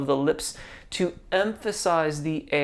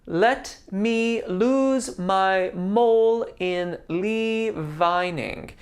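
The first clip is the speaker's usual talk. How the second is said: spoken slowly; 3 semitones higher, slower than usual. Shown as a demonstration. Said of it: "I want you to really emphasize the vowels".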